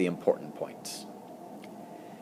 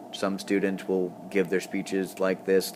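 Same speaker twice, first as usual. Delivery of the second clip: slow, flat monotone read; monotone robot reading; slower than usual. Shown as a demonstration. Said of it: "like they're reading like a robot".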